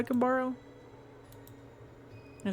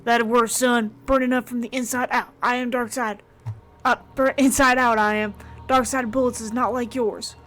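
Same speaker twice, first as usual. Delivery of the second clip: put-on strained, higher voice of a shot old man; higher, louder voice of a wounded old man calling him son; wounded old preacher; 3 semitones higher, 8 dB louder than usual. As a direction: gasp it out through the pain, gut-shot. Wounded dark side character voiced.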